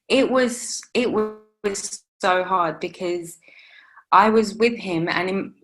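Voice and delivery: slow, breaking into a whisper on the verge of crying; fighting tears, voice dropping away to a whisper; holding back tears. Real, not acted. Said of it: "I'm just getting emotional".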